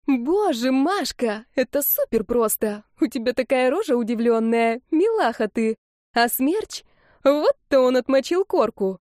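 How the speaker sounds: high, gushing excitement; excited squeal. Acted. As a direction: bubble over with glee. Friend squealing over the video.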